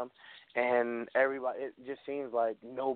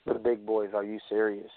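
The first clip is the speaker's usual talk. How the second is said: wrestling promo. Pretend. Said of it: "good fantasy promo".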